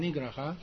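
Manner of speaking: 尼格拉哈 run together, rising on 哈; one smooth line ending up on 哈; smooth flow. Shown as a demonstration. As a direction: glide through 尼格拉哈 without breaks. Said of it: "要很顺".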